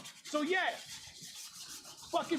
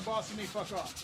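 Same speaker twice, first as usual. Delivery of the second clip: deep voice changer voice; low electronic changer voice; 3 semitones lower than usual. Acted. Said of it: "this voice changer".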